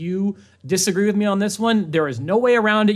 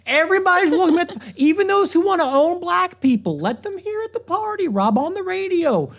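fast, much higher Southern redneck voice; Southern redneck voice, pitched way up; specific redneck voice; 10 semitones higher than usual. Pretend. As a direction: ham up the redneck radio caller. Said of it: "I'm not doing a generic redneck voice".

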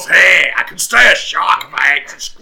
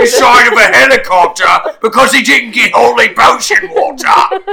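ranting shout; 5 semitones higher than usual. Acted. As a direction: whine it out at full volume. Shark character ranting loudly.

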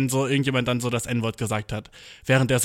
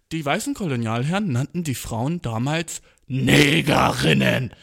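slow read-aloud. Retold or imitated. Classmate reading a history text.

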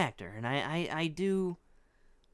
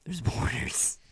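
laughing through the repeat of his joke; 4 dB louder, slower than usual. Real, not acted. Repeating the co-host's deadpan line, laughing. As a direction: echo the punchline while cracking up.

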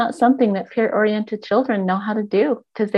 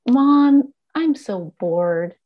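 put-on whiny child; 2 semitones higher, 3 dB louder, much slower than usual. Child voiced whining to parent.

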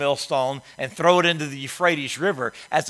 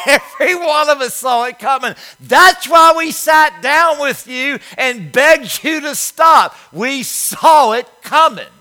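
high, loud, slow told-you-so yell; mock scolding shout; 9 semitones higher, 12 dB louder, slower than usual. Comedian scolding his jailed friend, in a loud mock yell. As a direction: hammer it home like a fed-up friend.

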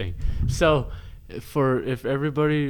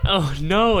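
ordinary delivery

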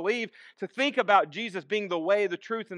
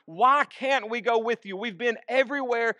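slightly raised, insistent questioning; anxious protest; 3 semitones higher than usual. Acted. Followers protesting being left behind, mildly anxious. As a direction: plead with a touch of worry. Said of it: "is an expression of anxiety".

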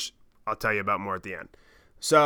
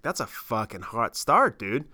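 put-on accidental Canadian accent; slower than usual. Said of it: "I just sounded like Canadian there".

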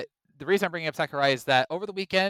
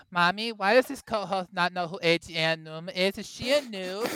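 put-on kid voice; 3 semitones higher than usual. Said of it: "allow me to portray the younger audience".

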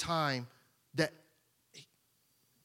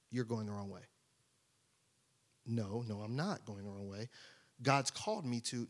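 much softer, lower back-and-forth; hushed church argument; 9 semitones lower, 7 dB quieter than usual. Acted. Churchgoers quietly arguing over his calling, hushed. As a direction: argue under your breath in a pew.

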